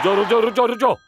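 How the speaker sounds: high, rapid-fire repeated warning; urgent stop command. Acted. Driving teacher urges learner to stop. (घबराकर रोकते हुए)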